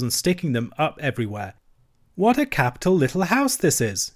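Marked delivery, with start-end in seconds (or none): 2.1-4.1 high, bright call of delight; cheerily. Acted. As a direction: cheer your friend up with enthusiasm. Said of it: "he called out cheerily".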